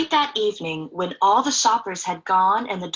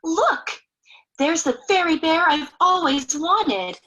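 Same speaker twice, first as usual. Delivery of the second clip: put-on higher eager little girl voice; 5 semitones higher than usual. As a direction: point out the bear like a hopeful child. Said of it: "she said".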